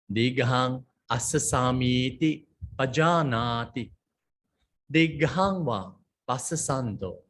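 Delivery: slow, measured Pali reading; scripture recitation. Acted. Teacher reads the Pali passage to students, slow recitation. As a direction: recite each phrase slowly, with pauses.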